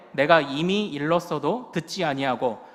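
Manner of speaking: loud, emphatic scriptural rebuke; rebuking. Acted. Healed blind man answering the Pharisees, loud rebuke. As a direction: read it out as a forceful scolding. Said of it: "한마디 호통을 칩니다".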